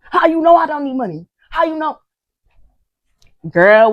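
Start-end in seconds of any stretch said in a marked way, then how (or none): 0.0-2.0 high, put-on voice of offended outrage; indignant twin. A YouTuber mimicking the twin's reply to her, high mock outrage. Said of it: "One of them is like".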